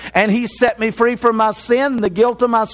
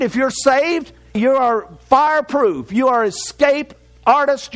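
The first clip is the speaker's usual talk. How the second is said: raised pulpit delivery; preaching; 3 semitones higher than usual. Acted. Preacher assuring the saved congregation, raised preaching. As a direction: drive the warning home to the church.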